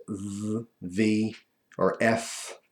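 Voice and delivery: lisping V and F through a gap; missing front teeth. Shown as a demonstration. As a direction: air hissing where front teeth should be. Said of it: "it seems lispy because it's not".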